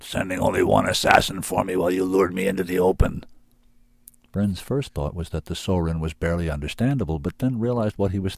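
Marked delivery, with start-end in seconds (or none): 0.0-3.2 a beast's voice, a touch louder; angry beast voice; growling beast. A narrator's reading. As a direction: accuse him like an angry creature. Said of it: "it growled".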